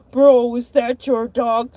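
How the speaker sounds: low, slow manager voice; store manager. Retold or imitated. Manager asking about the barking dog, low and slow. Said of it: "He's like".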